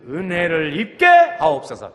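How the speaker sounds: loud, slow, falling call of 하옵소서; loud prayer line. Shown as a demonstration. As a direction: lead the congregation in prayer aloud. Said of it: "시작". (크게 소리 내어 기도)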